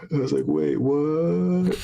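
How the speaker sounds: high, rising retold disbelief. Host retelling being fooled by a stranger, startled disbelief. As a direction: replay being taken aback, pitch climbing.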